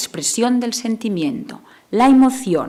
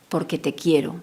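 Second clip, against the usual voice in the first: tender reassurance; 3 semitones lower than usual. Shown as a demonstration. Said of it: "no puede perder nunca la transmisión de amor".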